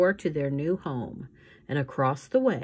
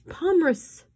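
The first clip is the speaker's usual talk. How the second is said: put-on high squeaky baby voice, hardly sad; a baby squeaking with only a touch of sadness; 13 semitones higher, 6 dB louder than usual. Baby Sunny recalling Aunt Josephine, high squeak. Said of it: "Sunny said hap-, sadly".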